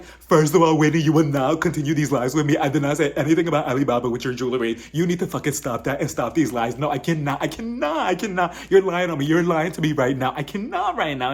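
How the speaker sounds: hammed-up indignant outburst; mock eruption. Woman denying she spread rumors, mock furious tirade. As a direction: play the outraged diva, hitting the first words loud. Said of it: "she turned into a damn volcano".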